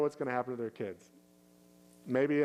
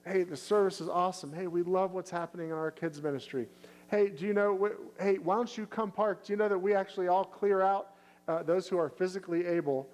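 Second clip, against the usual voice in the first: higher, bright-eyed bragging about church; enthusiastic praise; 5 semitones higher than usual. Shown as a demonstration. Church member raving to a friend about the church, excited. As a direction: sell it like a fan. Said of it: "you start going".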